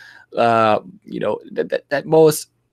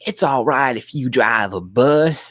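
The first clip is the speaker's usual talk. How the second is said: higher, exaggerated take on her faked Black accent; mock Black American accent; 5 semitones higher than usual. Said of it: "trying to do a black accent".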